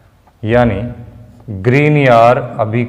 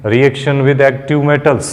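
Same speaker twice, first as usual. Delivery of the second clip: very slow, word by word as he writes on the board; dictating while writing; much slower than usual. Shown as a demonstration. Teacher dictating the heading slowly for students to copy. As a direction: spell it out slowly for the notes. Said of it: "Hindi English दोनों में साथ में लिख रहा हूं".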